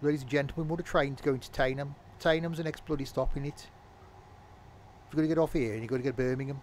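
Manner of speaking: put-on Yorkshire train announcement; half-accidental Yorkshire accent. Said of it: "That was Yorkshire, was it?".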